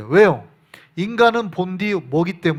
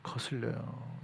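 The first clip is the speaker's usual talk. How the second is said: 거슬려요 answered very softly, falling; 거슬려요. said low and final; hushed answer; 9 semitones lower, 19 dB quieter, slower than usual. Shown as a demonstration. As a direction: drop to a near-whisper on 거슬려요 to settle it. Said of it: "이 말씀이 내 귀에 달콤해요".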